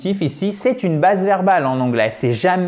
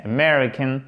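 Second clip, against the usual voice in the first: American with the stress on the second syllable, "me"; American, first syllable barely heard. Shown as a demonstration. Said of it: "tonique sur la seconde syllabe".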